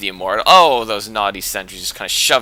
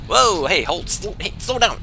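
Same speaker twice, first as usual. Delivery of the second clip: high hey, slow down called after them; mock calling out; 8 semitones higher than usual. Caster calls after racing zerglings, playful calling out. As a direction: shout after runaway units.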